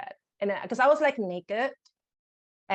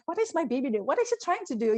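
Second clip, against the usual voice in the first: bewildered inner voice; 7 semitones higher, faster than usual. Retold or imitated. Inner panic at crying newborn.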